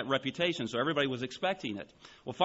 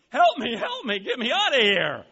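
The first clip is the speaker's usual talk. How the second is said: high, loud, desperate cry for help; screaming for help; 10 semitones higher, 7 dB louder than usual. Acted. Trapped ape-suit man to the crowd, screaming for help. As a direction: yell it out like a man in mortal danger. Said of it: "he's screaming all the louder".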